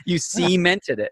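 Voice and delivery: slow "cemented" with a drawn-out SEE at the start; mocking mispronunciation. Host ribbing friend over his English, slow SEE-mented "cemented". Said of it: "emphasis on the wrong syllable".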